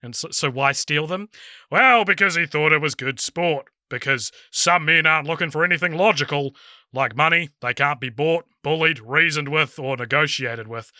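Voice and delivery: put-on Southern Kiwi accent, lightly done; Alfred's monologue in an Invercargill accent; New Zealand accent. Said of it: "in a New Zealand accent".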